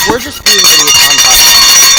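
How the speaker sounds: calling out loudly. Real, not acted. Loud reply to off-mic parent.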